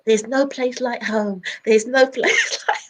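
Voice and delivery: slow, wistful Dorothy quote breaking into a laugh; a light take on Dorothy clicking her heels; lightly voiced Dorothy, slowed down; Dorothy line. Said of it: "like Dorothy on the".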